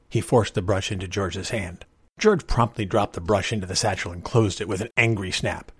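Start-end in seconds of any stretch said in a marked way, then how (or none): none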